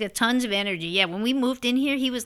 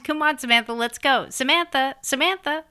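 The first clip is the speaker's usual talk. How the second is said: calling out to a dog, higher and raised; mock calling; 5 semitones higher than usual. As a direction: call the dog's name up into the air.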